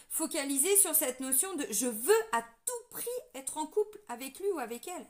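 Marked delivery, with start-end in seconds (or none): 1.7-5.1 insistance appuyée, un peu jouée; obstination imitée. Acted. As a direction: marteler comme une idée fixe. Voix de qui s'obstine, citée. (obstination imitée, ton insistant)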